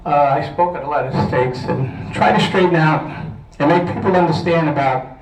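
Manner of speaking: winded, with short breaths. Real, not acted. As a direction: speak a bit breathless. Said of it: "I'm out of breath".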